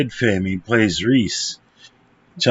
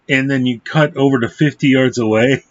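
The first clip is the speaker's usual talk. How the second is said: ordinary talk, nothing marked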